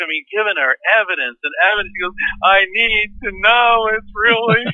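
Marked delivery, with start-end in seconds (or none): 2.4-4.6 slow, tearful pleading through crying. Retelling a woman's plea to them while giving her evidence, imitating someone crying. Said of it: "she's crying through this crumpled tissue".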